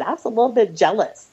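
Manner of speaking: admitting it through a laugh; sheepish laugh on the words; owning up with a giggle; laughing confession. Real, not acted. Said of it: "I'm just gonna say it".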